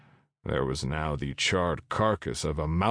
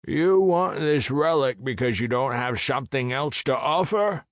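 dragon voice; 8 semitones higher, 4 dB louder than usual. Acted. Dragon Adventus voiced in story.

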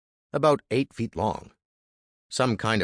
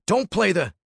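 higher, louder and heated; rising anger; 11 semitones higher, 5 dB louder than usual. Acted. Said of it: "his voice rising".

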